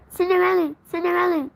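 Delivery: calling out. Acted. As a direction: call her name to get her attention. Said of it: "Jack called".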